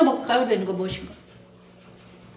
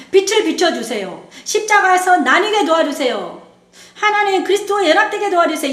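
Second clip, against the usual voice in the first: pleading prayer, slightly raised; earnest prayer; 3 semitones higher than usual. Shown as a demonstration. Model prayer for the congregation, said earnestly. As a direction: pray it to God with longing. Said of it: "이렇게 기도하십시오".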